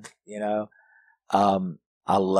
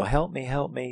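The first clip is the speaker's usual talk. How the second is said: higher, imitating a meek girl's plea; mock timid call for help; meek little voice; 5 semitones higher, 3 dB quieter than usual. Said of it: "in her quiet little way".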